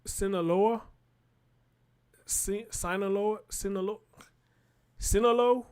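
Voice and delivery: soft, halting tries at "Sinaloa"; unsure pronunciation. Real, not acted. News reader stuck on a cartel's name, unsure and questioning. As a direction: sound out "Sinaloa" tentatively, as a question. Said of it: "how do I say that?".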